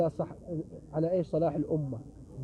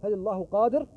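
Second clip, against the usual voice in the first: put-on higher, louder drunkard's question; drunk man's challenge; 5 semitones higher, 4 dB louder than usual. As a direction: press the question hard as the drunk. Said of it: "قال".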